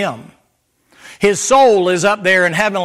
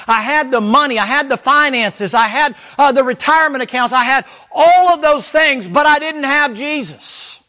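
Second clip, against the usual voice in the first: Paul's boast, pitched higher and building, each "had" punched, then slowing on "but I didn't have Jesus"; voicing Paul; 4 semitones higher than usual. Preacher voicing Paul to the congregation, higher, emphatic list. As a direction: preach it as Paul listing everything he owned, then drop to the one thing missing. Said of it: "Do you see the emphasis that Paul is saying?".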